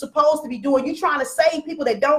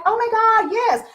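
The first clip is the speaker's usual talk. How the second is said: much higher, gushing oh my God yes; gushing agreement; 8 semitones higher than usual. Retold or imitated. Coach imitating eager group members, gushing high. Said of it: "people that were like".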